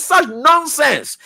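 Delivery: slow, drawn-out scornful mimicry of a dismissive insult; scornful mock quote. Host mimics the arrogant official insulting a young man, slow sneer. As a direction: sneer it out slowly, mocking his arrogance. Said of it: "insults the young man again, honor, and says".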